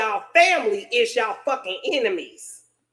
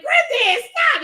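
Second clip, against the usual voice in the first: higher-pitched pleading call; urgent plea; 11 semitones higher, 4 dB louder, slower than usual. Retold or imitated. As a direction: cry out to stop him, pitched up. Stopping grandpa hitting sister.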